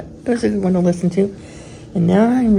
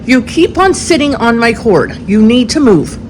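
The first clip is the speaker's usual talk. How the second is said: annoyed; 4 semitones higher, 4 dB louder than usual. Retold or imitated. Retold complaint.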